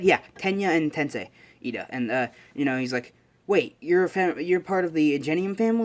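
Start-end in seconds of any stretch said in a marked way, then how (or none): 3.5-5.8 higher-pitched surprised question; acted dawning fanboy amazement; amazed realization. Izuku realizing his classmate's famous family, amazed.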